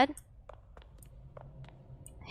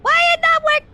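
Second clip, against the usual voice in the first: broken English frustration; 11 semitones higher, 7 dB louder than usual. Real, not acted. Frustrated at game.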